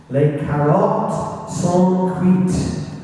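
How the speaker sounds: slow, deliberate French with a bad English accent; terrible French accent. Local history talk, reading the coded D-Day radio message, slow English-accented French. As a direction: read out the coded message in halting schoolboy French. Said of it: "despite my terrible French accent".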